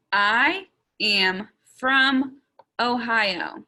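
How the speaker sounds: slow, each word set apart; word-by-word check. Shown as a demonstration. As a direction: count off the words slowly and firmly. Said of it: "make sure I have all my words".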